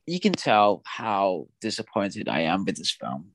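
low, subdued, let-down delivery; real disappointment. Real, not acted. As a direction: let the disappointment weigh on your voice. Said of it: "I can hear it in your voice".

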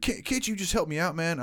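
high-pitched exasperated plea; frustrated. Retold or imitated. Man asking a stranger for help, frustrated. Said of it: "he gets really frustrated".

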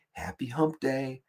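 office hump day guy. Retold or imitated. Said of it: "dude in the office that's all like".

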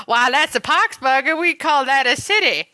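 lightly hammed-up old-timey local; a hint of an old-time character voice; old-timey guy. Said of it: "You sound like one of those guys".

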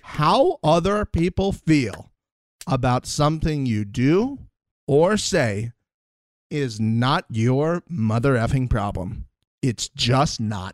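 "How" and "problem" stretched out, slow and deliberate; slow emphatic repeat. Shown as a demonstration. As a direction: deliver it slowly like a motto. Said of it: "Say it again for the people in the back".

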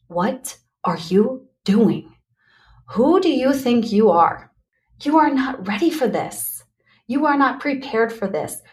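lightly voiced doubting inner voice; inner critic voice. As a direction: play the nagging voice in your head. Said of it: "the voice inside of my head was saying things like".

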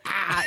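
imitated kids' "Ah", no R; "Ah" copying the teacher, R dropped. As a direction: echo "Ah" as an open vowel. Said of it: "they were just making her noise".

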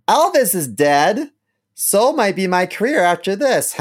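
high, loud, slowed mock declaration; hammed-up tipsy announcement; imitating drunk celebrity. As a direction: blurt it like a plastered interviewee. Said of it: "he's like".

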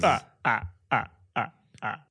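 Count laugh. Retold or imitated.

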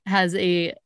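put-on slow, drawn-out try at a Lady Whistledown accent; attempted Lady Whistledown accent. Host attempting an episode introduction, Lady Whistledown accent. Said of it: "I was about to do the accent".

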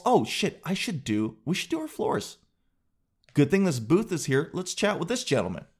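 a hint of a giddy customer; impulsive shopper. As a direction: act the spur-of-the-moment buyer. Impulse floor buyer.

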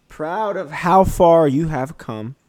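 inspirational. Real, not acted. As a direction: lift them up slowly. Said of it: "daily inspiration".

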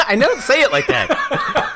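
high loud laughing protest; slow, laughing, mock-outraged; mock mad. Denying his accent to his cohost, mock angry. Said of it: "You get so mad about it".

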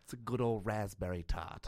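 put-on British baker; British accent. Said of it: "Can I do a British accent".

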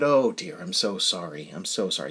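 soft, low condolence; retold sympathy. Neighbour consoles him over job loss.

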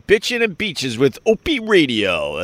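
hammed-up radio sign-on. Shown as a demonstration. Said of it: "I just gave you a little radio voice".

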